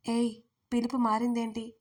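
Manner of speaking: plain reading voice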